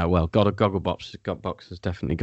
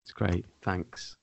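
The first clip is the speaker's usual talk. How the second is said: passive aggressive. Retold or imitated. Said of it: "the passive aggressive pause".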